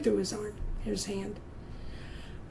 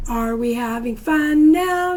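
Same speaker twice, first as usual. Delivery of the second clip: cheery question; 5 dB louder than usual. Shown as a demonstration. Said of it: "call and response with class".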